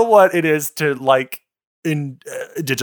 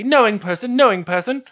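sing-song; 5 semitones higher than usual. Retold or imitated. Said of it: "when I was in college, I'd say".

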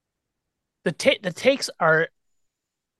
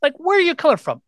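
exasperated disbelief; 11 semitones higher, faster than usual. Retold or imitated. Exasperated reply to callers.

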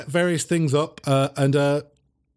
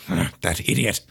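Kloss muttering; 8 semitones lower than usual. Acted. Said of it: "Kloss is like".

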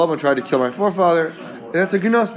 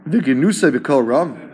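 "Vigenusa b'kol ram" as a puzzled question, rising on "ram"; wondering question. Shown as a demonstration. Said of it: "This is a language of bitmia, a language of wonderment".

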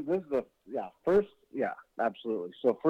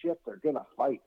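put-on kid amazement; 5 semitones higher than usual. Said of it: "my brother and I are just like".

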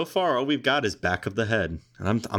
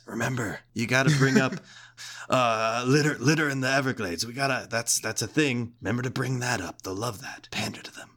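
snake voice; 3 semitones higher than usual. Acted. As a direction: hiss it into his ear like a sly snake. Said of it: "That was a really good snake voice".

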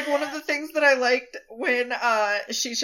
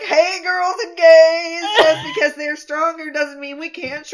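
sashaying gif lady; 3 semitones higher, 5 dB louder than usual. Retold or imitated. Joking about Lan Xichen sweeping in, mock sashay. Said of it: "like that lady from the gif".

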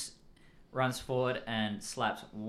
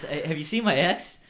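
put-on louder, higher SoCal surfer accent; 4 semitones higher, 6 dB louder than usual. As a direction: call out like a stereotypical California surfer. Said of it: "I'm doing the stereotypical SoCal surfer accent".

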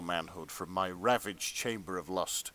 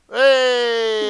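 loud high shout; 17 dB louder than usual. Real, not acted. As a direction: cheer it out. Cheering at Flint reference.

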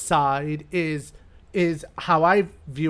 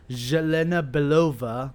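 Russian accent. Shown as a demonstration. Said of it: "that's my Russian accent".

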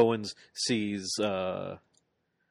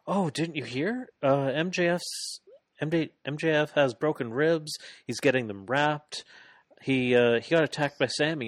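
mock innocent; 5 semitones higher than usual. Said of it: "they say".

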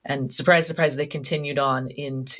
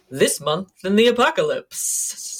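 movie trailer voice; 5 semitones higher than usual. Shown as a demonstration. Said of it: "you promised you would do it in the, um, the movie preview voice".

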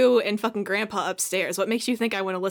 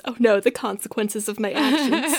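mock inner dismay; 2 semitones higher than usual. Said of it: "inside Royale's brain".

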